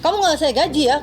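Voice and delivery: mild mock scolding; retold threat. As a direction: act out a boss laying down the law. Retold employer threat over pay.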